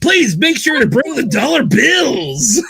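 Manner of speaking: drawn-out hype announcer call; strip club announcer. Pretend. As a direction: announce it like a club MC, "it's" stretched long. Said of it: "my strip club announcer voice".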